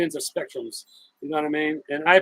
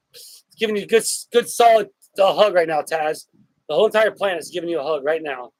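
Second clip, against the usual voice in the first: squeezed, strained voice on held breath; holding breath; 4 dB louder than usual. Real, not acted. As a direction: talk while holding your breath in a hug. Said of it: "it's because I'm holding my breath".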